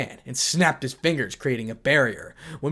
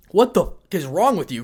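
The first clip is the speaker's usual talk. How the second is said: loud, high furious outburst; angry shout; 6 semitones higher, 8 dB louder than usual. Acted. Goro exploding at his son, furious shout. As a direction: blow up at him.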